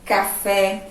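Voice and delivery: café with an open stressed final E; café ending in a strong open É; model word. Shown as a demonstration. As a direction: say café with stress on the last syllable. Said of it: "Agora veja aqui".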